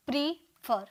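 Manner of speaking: "प्रीफर" split as प्री, pause, फर; two separate syllables. Shown as a demonstration. Teacher showing two syllables in "प्रीफर", with a gap between them. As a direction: sound out both beats of "प्रीफर". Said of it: "दो sound निकल रहा".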